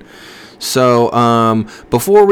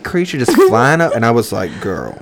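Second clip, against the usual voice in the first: put-on college girl voice; 3 semitones higher than usual. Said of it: "I can't keep the voice".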